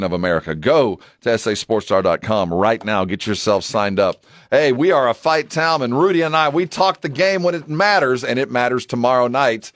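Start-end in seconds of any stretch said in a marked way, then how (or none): 4.5-9.7 excited hype. Real, not acted. Hyping tomorrow's fight card.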